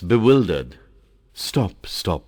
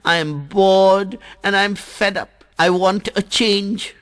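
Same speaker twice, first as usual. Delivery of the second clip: speaking slowly; 13 semitones higher, 5 dB louder than usual. Acted. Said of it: "Jal speaks slowly".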